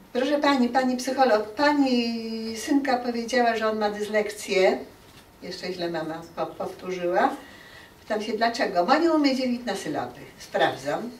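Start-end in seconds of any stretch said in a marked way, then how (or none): 0.1-4.8 lightly voiced mother, higher and louder; a touch of parental alarm, raised pitch; worried mother. Mother's complaint voiced in anecdote. 8.9-10.2 quick, higher quoted reply; lightly voiced parent answering in a hurry; mother's answer.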